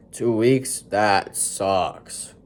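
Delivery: dripping sarcasm on sucks; mock sympathy, sarcastic. Shown as a demonstration. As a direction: say it as sarcastic as you can. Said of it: "trying to be as sarcastic as possible".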